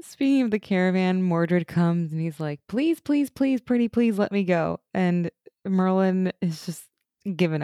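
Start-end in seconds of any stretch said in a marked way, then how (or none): 2.7-4.8 imitated begging, starting high and coming down; wheedling retold plea; mock pleading. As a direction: plead in a higher, needy mock voice. Retelling Mordred's begging.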